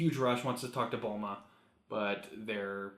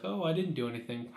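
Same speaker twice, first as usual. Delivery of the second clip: higher-pitched mock-innocent denial; sing-songy innocence; 5 semitones higher, faster than usual. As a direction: play innocent, with a lilt. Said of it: "just kind of a sing-songy whistle".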